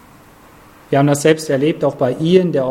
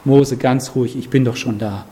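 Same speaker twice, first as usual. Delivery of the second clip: calm reassurance; 3 semitones lower than usual. Retold or imitated. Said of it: "Und der Herr sagt".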